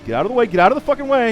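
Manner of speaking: frantic screaming rage, fast; furious shout. Real, not acted. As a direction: yell at the cars to move. Blocked car, screaming at traffic.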